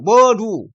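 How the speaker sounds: "뭐 루" as two drawn-out syllables; syllable-by-syllable demo. Shown as a demonstration. Teacher showing how 루 can become 리, syllable-by-syllable demo. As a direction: stretch "뭐", then "루", slowly. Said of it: "뭐 루가 리가 될 수 있죠".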